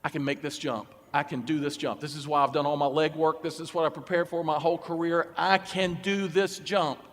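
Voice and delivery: low, resolute self-encouragement, slowing at the end; determined self-talk. Acted. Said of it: "If he engaged in precursive faith".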